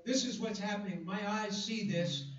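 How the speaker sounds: voicing Habakkuk. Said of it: "Can you hear the dilemma of Habakkuk".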